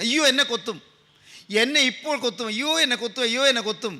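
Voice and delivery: repeated mock cry of a panicking child; imitated wailing child. Younger brother panics at the flying insect, imitated wail. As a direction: lightly act a frightened boy wailing over and over. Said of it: "കുട്ടി ഇങ്ങനെ ഉച്ചത്തിൽ കരയുകയാണ്".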